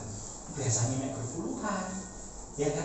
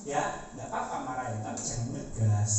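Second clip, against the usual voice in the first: put-on child protesting; 8 semitones lower, 4 dB quieter than usual. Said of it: "anak saya protes".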